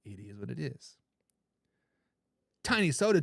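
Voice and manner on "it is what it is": soft aside. Real, not acted. Catchphrase repeated, fading.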